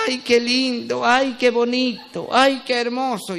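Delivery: slow, lightly voiced swooning wife; drawn-out mock admiration, a hint of a smitten girlfriend; doting wife. Remembering how his wife used to swoon over him, slow and lightly mocking. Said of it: "ella antes me decía".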